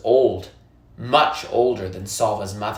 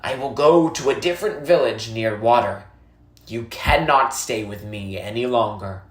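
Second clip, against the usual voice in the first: a lightly voiced old woman, calm and grave; old woman, somber; 2 semitones lower than usual. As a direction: explain the dry season to the boy gently.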